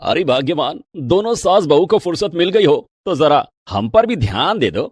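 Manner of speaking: a teasing husband wanting attention; father-in-law voice. Acted.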